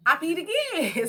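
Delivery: high, loud, slowed disbelief; exasperated disbelief. Real, not acted. Telling viewers how she kept leaking, high, loud and slow. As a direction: spell out the absurdity slowly and loudly. Laughing at her own story.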